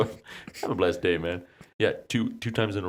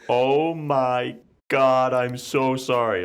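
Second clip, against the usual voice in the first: higher, slow flustered apology; apologetic woman caller; 7 semitones higher, 5 dB louder, much slower than usual. Retold or imitated. Caller apologizing to the wrong number, mock flustered. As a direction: gush an embarrassed sorry. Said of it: "She's like".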